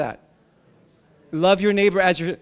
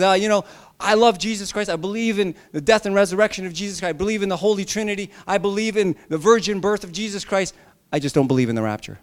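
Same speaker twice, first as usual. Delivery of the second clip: put-on Southern accent; 3 semitones higher, faster than usual. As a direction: play a man in a mild Southern accent. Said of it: "I don't know why I did that accent again".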